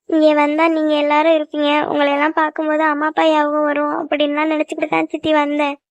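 subdued, tearful confession. Acted. Niece confiding hurt feelings to her aunts, tearful. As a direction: hold back tears while confiding. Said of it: "இப்படி அழுதுகிட்டு இருப்ப".

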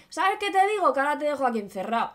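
starts high, then rattles off fast; smug wizard. Acted. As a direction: taunt him, then spit out the threat quickly. The mago threatens the boy. (mago chulo, rápido al final)

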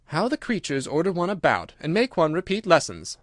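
Alice, put out. Acted. Alice thinks about bossy creatures, mildly put out. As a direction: grumble mildly in a lifted voice.

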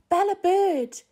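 high, loud excited call. A narrator's reading. Lucy calling up to the bird in spring, loud and high. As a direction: shout her name up to the bird with delight. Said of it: "called Lucy".

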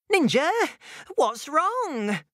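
high, worried call. Acted. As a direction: call out in concern. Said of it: "she called out".

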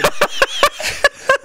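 a high wheezing laugh; breathless squeal laugh. Real, not acted. Squealing laugh while retelling the prank call.

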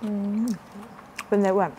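talking while chewing; muffled by food in mouth; mouth full of noodles. Real, not acted. Seen 0: Woman likely speaking; bit noodles at -2, cheeks full, chewing.

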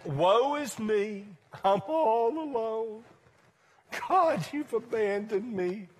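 mock self-pitying lament, slow; drawn-out woe-is-me wail, lightly acted; Elijah. Preacher acting Elijah hidden in a cave, lamenting. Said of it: "Elijah was beating himself up".

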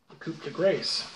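"Coupe de Grace" in mangled French, Grace said like English "grace"; bad French. Pipe reviewer announcing the main item, "Coupe de Grace" in bad French. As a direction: botch "Coupe de Grace", Grace rhyming with face. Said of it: "there's my French for you".

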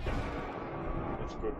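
laughing. Real, not acted. Laughing through reply.

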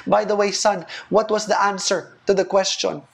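impressed mom. Retold or imitated. Preacher voicing the mom praising her son, a lightly voiced gushing mother. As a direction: swoon over your clever son, lightly played. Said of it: "the mom is like".

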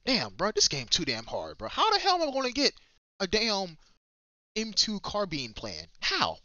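mock-despairing outburst, jumping high midway; retold exasperation. Player recalling the game seeming too hard, exasperated. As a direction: complain in disbelief, drawing words out. Retelling his early frustration with game.

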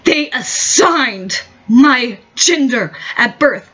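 slow, lightly voiced mock of an activist; mocking activist quote. Ranting vlogger mocking an activist's slogan, slow and sneering. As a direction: drag it out like a sneering parody. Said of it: "when you use aggressive language like".

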